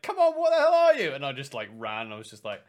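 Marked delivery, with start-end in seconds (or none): 0.0-1.1 high, loud charging yell; battle yell. Retold or imitated. Charging the enemy through high grass, a loud high yell. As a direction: shout it running in.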